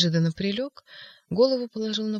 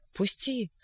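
struggling cry; 4 semitones higher than usual. Acted. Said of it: "кричал".

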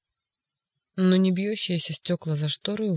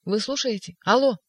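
much higher, louder alloh; shouting into phone; 5 semitones higher, 4 dB louder than usual. Acted. Ivan shouting into the phone, louder. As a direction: yell down a dead line. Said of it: "опять закричал в трубку".

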